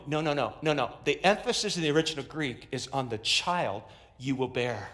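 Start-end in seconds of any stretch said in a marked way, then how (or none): none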